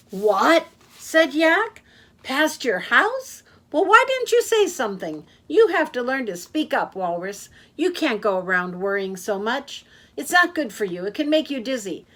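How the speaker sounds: high, loud, fast-talking taxi driver; a cheerful blabbermouth who never stops; loud chatty Yak. Acted. Yak the taxi driver chattering to his passenger, loud and high.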